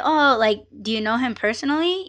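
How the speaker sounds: casual, quick question with a light "oh"; friendly small-talk curiosity; just conversating. Shown as a demonstration. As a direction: ask it offhand, as if to a friend. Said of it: "I was just asking him in that way".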